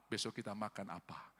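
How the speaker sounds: very soft, low voice of the poor. Acted. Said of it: "dari cara mereka berbicara".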